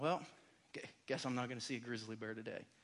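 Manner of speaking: very soft, quiet sigh under the breath. Retelling leaving the park without seeing a grizzly: imitating a sigh. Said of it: "I just kinda sighed and I thought".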